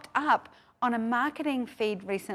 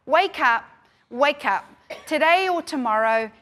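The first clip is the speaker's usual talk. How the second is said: rallying wake-up call; 3 semitones higher, 5 dB louder than usual. Real, not acted. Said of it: "rallying the audience".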